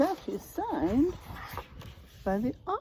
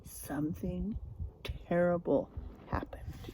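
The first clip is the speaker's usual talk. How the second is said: hushed whisper for a scary turn; suspense whisper; 4 semitones lower, 8 dB quieter than usual. Acted. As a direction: whisper it to spook the kids. Suspenseful storybook moment.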